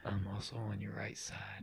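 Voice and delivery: soft whisper on the right; binaural. Shown as a demonstration. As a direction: whisper as if beside the listener. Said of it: "we can try going".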